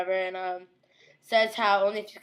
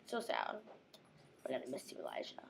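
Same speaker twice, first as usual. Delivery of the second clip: sad; 8 semitones lower, 15 dB quieter than usual. Real, not acted. Mourning dead character.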